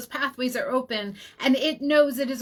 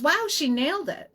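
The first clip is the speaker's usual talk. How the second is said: higher-pitched imitation of an impressed husband; amused amazement; 4 semitones higher than usual. Imitating her husband agreeing with the practitioner, amused amazement. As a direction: act out an amused, mildly amazed "wow". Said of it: "He starts laughing".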